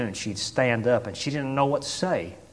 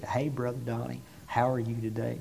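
quiet, reserved, calm; 9 dB quieter than usual. Retold or imitated. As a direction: imitate a sweet, calm lady speaking quietly. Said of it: "just quiet, reserved, and calm".

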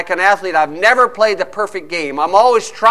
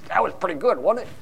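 meek compliment; 8 dB quieter, faster than usual. Acted. Timid fan voices mild praise.

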